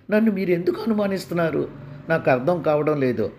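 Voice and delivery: a touch of staged tearful protest; mock wounded wailing. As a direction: play the hurt, falsely accused wife. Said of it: "కొళ్ళుని ఏడవడం మొదలుపెట్టింది". (నటనతో కూడిన ఏడుపు)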